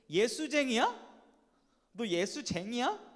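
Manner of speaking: mildly taunting question with a rising end; sarcastic. Retold or imitated. Preacher quoting what believers get called, sarcastic. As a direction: needle them, letting the question climb. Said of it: "이렇게 비꼬는 말".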